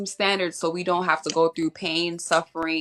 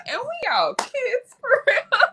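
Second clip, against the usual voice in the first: auntie voice; 3 dB louder than usual. Retold or imitated. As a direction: mimic your friend's auntie voice, high. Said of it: "You did that in your auntie voice".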